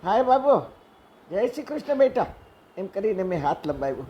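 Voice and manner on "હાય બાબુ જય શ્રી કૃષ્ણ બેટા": lilting sing-song. Retold or imitated. Greeting the little boy again, now in a playful lilt. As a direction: coax the child with a playful lilting tune. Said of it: "મેં ફરી પાછું લહેકામાં કહ્યું".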